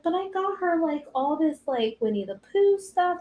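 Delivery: high-pitched imitation of an eager aunt; lightly mock her gushing; excited aunt. Aunt defending her gifts to mom, excited. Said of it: "She was so excited".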